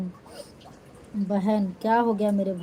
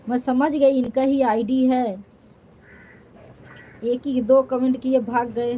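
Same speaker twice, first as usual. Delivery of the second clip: caught you; 3 semitones higher, 4 dB louder than usual. Real, not acted. Catching a commenter's fake ID.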